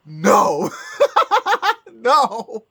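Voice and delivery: high gasping laugh-cry no; laughing shout of disbelief. Real, not acted. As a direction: gasp then howl with laughter. Disbelief at the news.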